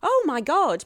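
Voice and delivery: high, loud exclamation of dismay; retold panic. Actress overwhelmed by job decision, loud acted-out panic. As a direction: wail it out, mock-overwhelmed.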